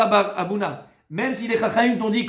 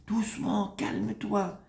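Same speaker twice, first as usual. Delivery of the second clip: soft, hushed reassurance; gentle calm; 9 dB quieter, slower than usual. Shown as a demonstration. Rabbi showing how to speak at home, gently. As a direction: soothe softly, barely raising the voice. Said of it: "des paroles qui sont dites avec".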